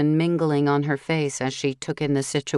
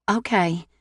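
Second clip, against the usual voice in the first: choked out; 4 semitones higher than usual. Acted. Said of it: "she choked out".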